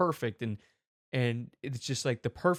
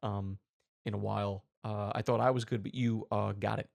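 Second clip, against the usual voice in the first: low, soft, calm star praise; half-hearted impression, quietly conceding; lightly voiced actor, lowered and hushed; Robert Downey Junior; 4 semitones lower, 3 dB quieter than usual. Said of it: "I can't really do a good impre".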